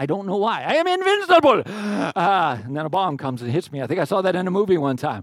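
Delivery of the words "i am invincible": put-on Russian accent, very high pitch, loud. Saying the phrase the way he always wants to, in a Russian accent. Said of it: "I want to say them with a Russian accent".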